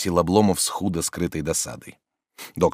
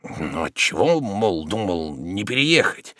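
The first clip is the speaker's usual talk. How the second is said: trembling voice; slower than usual. Acted. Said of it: "дрожащим от душевной тревоги голосом".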